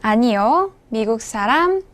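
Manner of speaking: normal talking voice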